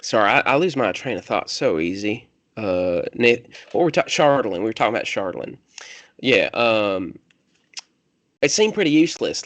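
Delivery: rambling country loner losing the thread; light country accent, searching for the words. Acted. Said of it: "your country voice".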